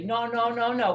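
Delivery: child mimicking a doctor's Russian accent; imitated Russian accent. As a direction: scold with a mock Russian accent. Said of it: "with that accent".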